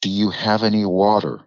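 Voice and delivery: put-on American pronunciation of "water"; American accent. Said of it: "didn't have an American accent".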